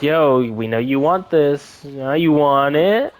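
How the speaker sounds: slow, drawn-out tease rising at the end; playful taunt. Retold or imitated. Studio dangles the character before fans, teasing taunt.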